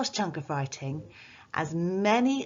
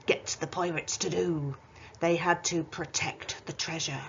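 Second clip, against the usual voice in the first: lightly voiced pirate teaching the class; a hint of a jolly pirate captain. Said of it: "let's get the pirate voice back in".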